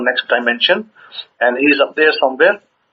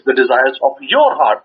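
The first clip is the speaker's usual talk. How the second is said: "your" picked out as if in brackets; emphatic "your" before "heart"; stress on your. Shown as a demonstration. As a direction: lean firmly on "your", then finish the phrase. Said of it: "close brackets".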